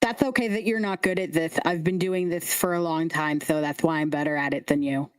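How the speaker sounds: smug lisping little show-off; lisping scarecrow kid. Acted. Kid excuses Lulu's failed throw, lisping. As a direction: console and boast with a lisp. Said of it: "The lisp".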